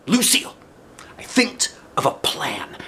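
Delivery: high squeal of a sudden idea; excited Junie B. Acted. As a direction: burst out with the plan. Excited kid voicing Junie B.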